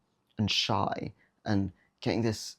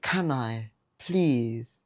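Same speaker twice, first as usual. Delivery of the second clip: mock needy plea; 2 semitones higher, much slower than usual. Nervous guy pleading with a girl, whiny mock ask. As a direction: plead weakly, like a pushover. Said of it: "cringy and sad and pussy that sounds".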